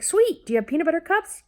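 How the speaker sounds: put-on very high, eager child voice; delighted kid. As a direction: squeak it like a happy boy. Son's delighted reply, voiced.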